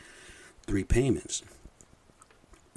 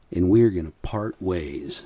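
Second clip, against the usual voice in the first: louder, slower, heated delivery; hot and heated; 6 dB louder, slower than usual. Retold or imitated. Boss firing the podcaster, heated and louder. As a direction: say it like a hot boss ending the job. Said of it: "And he was hot. That's how he said it".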